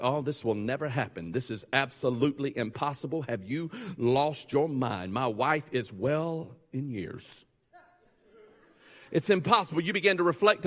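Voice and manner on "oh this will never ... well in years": mocking, disbelieving old husband; scoffing disbelief. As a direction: sneer at the very idea of it. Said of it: "doubt that comes from disbelief makes statements like".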